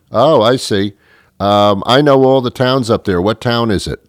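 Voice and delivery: a hint of an eager female questioner; interested woman. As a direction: keenly press for an answer in a lifted voice. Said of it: "she'll probably say".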